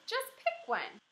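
put-on teacher finally losing patience with the child; exasperated. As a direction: snap it out at the end of her rope. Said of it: "said Missus".

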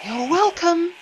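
high, mocking sing-song; jeering. A narrator's reading. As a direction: jeer at them as they leave. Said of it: "Axel jeered".

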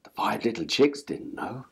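ordinary delivery, nothing marked

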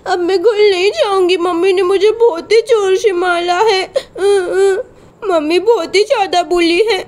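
put-on a child crying to a neighbour auntie after being hit. Little Sonam crying to Radha auntie about her mother. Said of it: "रोते रोते सोनम आ जाती है".

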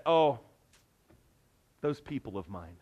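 an indifferent God, lightly voiced; mock weary sigh. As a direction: shrug the people off with a tired sigh.

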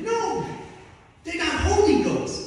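mock stoned friend laughing. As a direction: laugh it off like a high buddy.

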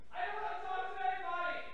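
put-on high, cross girl's voice snapping back; Pesky shouting. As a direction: play the upset girl telling them off. Pesky refusing to talk.

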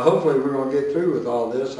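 quick, low aside; talking fast. Real, not acted. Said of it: "I know I'm talking fast".

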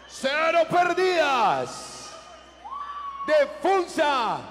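ring announcer. Real, not acted. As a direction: announce the fighters with swelling hype. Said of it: "our veteran ring announcer".

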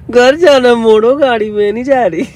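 slow, teasing parody of her sulk; mocking imitation. Boyfriend mocking his girlfriend's sulky demand, teasing imitation. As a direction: mimic her whining to tease her. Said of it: "क्या नाटक क्यों कर रही है".

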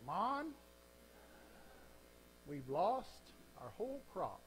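put-on Jamaican farmer's accent, high rising "Mon". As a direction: put on your best Jamaican accent, drawn out. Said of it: "this is my best Jamaican accent".

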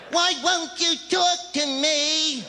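high and slow, stretching the whine; drawn-out whiny girlfriend. Retold or imitated. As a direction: drag out the clingy plea. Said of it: "They're there afterwards going".

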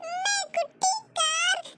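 put-on whimpering toddler. Toddler Neela asking mother for a toy car, whimpering. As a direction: whimper like a little one wanting a car.

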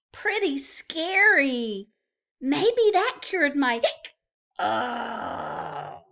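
lightly voiced cheerful penguin; friendly little penguin, gently voiced. Penguin talks to reader.

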